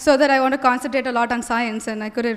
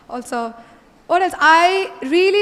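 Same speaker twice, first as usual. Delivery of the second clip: a shy little laugh before going on; 4 semitones higher than usual. Real, not acted. Shy laugh while speaking.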